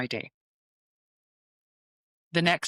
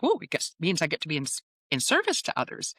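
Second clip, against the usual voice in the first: excited. Retold or imitated. Excited about being a light worker.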